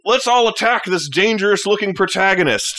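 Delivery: rally the gang with silly overconfidence; lightly voiced bandit. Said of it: "they're just like".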